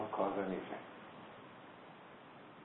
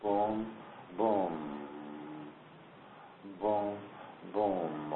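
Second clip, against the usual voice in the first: "boom" rising then "boom" falling lower, like a heartbeat; 3 semitones lower, 5 dB quieter, much slower than usual. Shown as a demonstration. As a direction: mimic a slow heartbeat. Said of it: "heart to beat like".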